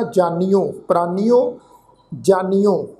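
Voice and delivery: ਪ੍ਰਾਨੀਓ and ਜਾਨੀਓ ending in a clear -nio; ਜਾਨੀਓ with hora o on the end; careful pronunciation. Shown as a demonstration. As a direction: sound each syllable of ਪ੍ਰਾਨੀਓ, ਜਾਨੀਓ distinctly. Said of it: "ਅਸੀਂ ਪਾਠ ਉਚਾਰਨ ਕਰਾਂਗੇ".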